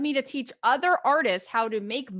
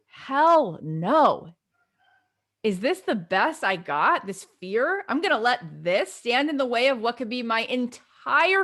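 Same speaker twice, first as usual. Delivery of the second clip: determined self pep talk; 4 dB louder than usual. Retold or imitated. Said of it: "I used to say to myself".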